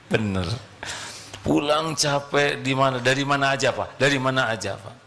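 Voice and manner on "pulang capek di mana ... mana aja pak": quick, sharp "dari mana aja, Pak"; nagging wife. Retold or imitated. Wife grilling husband at the door, quick nag. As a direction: pester him like a wife.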